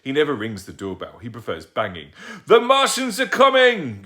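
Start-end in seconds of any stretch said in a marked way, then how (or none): 2.4-4.0 loud, slow, high mock alarm with a laugh; yelled. Dad yelling a fake Martian alarm at the banging door. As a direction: bellow a joking alarm. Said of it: "yelled Dad".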